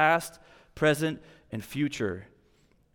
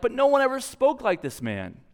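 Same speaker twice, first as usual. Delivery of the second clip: awed officers; 8 semitones higher than usual. Retold or imitated. Officers defend Jesus to Pharisees.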